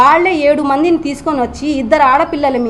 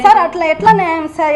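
indignant plea; 5 semitones higher than usual. Real, not acted. Wife protesting to the reporters, indignant and pleading. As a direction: demand an answer, upset and pressing.

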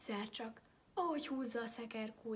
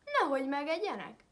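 scared plea; 4 semitones higher, 10 dB louder than usual. A narrator's reading. Frightened wolf begging.

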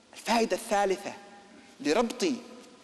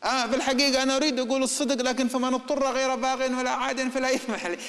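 higher-pitched voice of self-justifying excuses; wavering man reconsidering; 7 semitones higher than usual. Acted. Man rethinking his honesty as his job is threatened, high self-justifying voice. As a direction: talk yourself out of it, pitched up. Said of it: "يبدأ يراجع نفسه".

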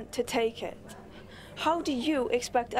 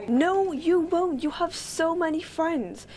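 higher, louder and slow, insisting; emphatic denial; 6 semitones higher, 4 dB louder, slower than usual. Acted. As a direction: refuse her fear outright. Child firmly contradicts lonely mother.

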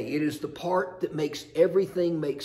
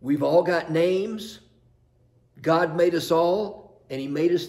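slow, louder and emphatic; preached proclamation; 6 dB louder than usual. Real, not acted. Pastor repeating the line to the congregation, slow and loud. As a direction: proclaim it to the whole chapel. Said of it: "truer than that statement".

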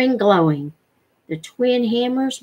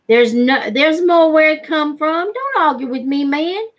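insistent rough demand; 6 semitones higher than usual. Acted. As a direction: shut down any argument. Man bullying Penny into trade.

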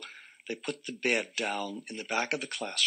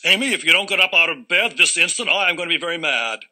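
high, loud stern threat; sternest father voice; 6 semitones higher, 10 dB louder than usual. Acted. Father at the bedroom door, stern and loud. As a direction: lay down the law as an angry dad. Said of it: "in his sternest father voice".

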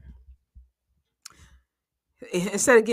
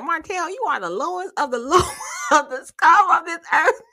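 high, louder dramatic quote; hammed-up higher insult rising at the end; mock Mel telling off; 10 semitones higher, 7 dB louder than usual. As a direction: deliver it like a grand insult. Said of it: "She said".

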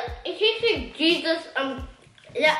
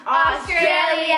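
shout; 4 dB louder, much slower than usual. Acted. Catchphrase called out.

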